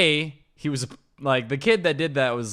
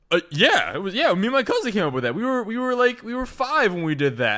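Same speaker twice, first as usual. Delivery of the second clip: put-on kid keeping up a lie; 6 semitones higher, 3 dB louder than usual. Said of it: "he can't break character".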